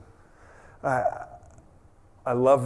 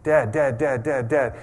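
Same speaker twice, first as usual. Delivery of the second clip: put-on louder, insistent kid calling Dad; kids pestering; 4 dB louder than usual. Kids calling for their distracted dad, loud and insistent. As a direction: keep calling till he looks up. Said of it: "I think of my kids".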